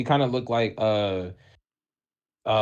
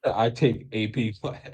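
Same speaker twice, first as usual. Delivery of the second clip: slow dumb caveman voice; 4 dB quieter, slower than usual. Retold or imitated. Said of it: "It sound like a caveman".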